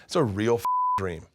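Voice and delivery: high, drawn-out cheer; crowd going wild. Retold or imitated. Audience losing their minds at tap dancers, wild cheering. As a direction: imitate an ecstatic audience cheer. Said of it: "they're just losing their minds".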